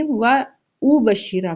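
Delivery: و او بشیرہ with the y dropped, "wa oo"; و او بشیرہ starting its second syllable on a bare vowel; common misreading. Shown as a demonstration. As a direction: swap the ya for a hamza in و او بشیرہ. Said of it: "بہت غلطی یہ بھی ہوتی ہے".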